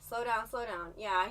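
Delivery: ordinary talk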